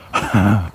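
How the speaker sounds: brief breathy huff of a laugh; short laugh. Real, not acted. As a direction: let out one short laugh at the heat. Reacting to the sudden heat.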